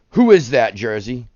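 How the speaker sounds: playful loud guessing game; teasing quiz call. Real, not acted. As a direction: challenge the viewer to name it. Quiz question to chat.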